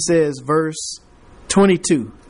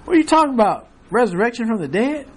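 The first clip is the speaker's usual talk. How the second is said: mocking Festus; 8 semitones higher than usual. Festus scoffing at Paul, shrill and mocking. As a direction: squeal it like he can't believe his ears. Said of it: "He said".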